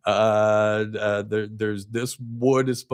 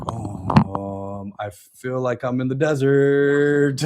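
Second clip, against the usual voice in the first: drawn-out, droning mock complaint; mock desert weariness; much slower than usual. Reader stuck in those books of the Bible, hammed-up weariness. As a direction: drag out the words as if stranded. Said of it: "when you're in those books, I'm just like".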